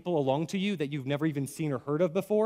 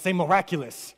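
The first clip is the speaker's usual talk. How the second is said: "miraculous" in a big preacher voice; 3 dB louder than usual. Shown as a demonstration. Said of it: "put your best, like, preacher voice on and say miraculous".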